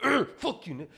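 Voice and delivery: fake-annoyed joking snap; mock annoyed groan. Joking with a friend about fake anger, mock annoyed. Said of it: "I just like acting like".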